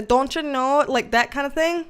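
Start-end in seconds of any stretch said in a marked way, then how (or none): 0.0-0.8 mock Wisconsin accent. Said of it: "the Wisconsin accent".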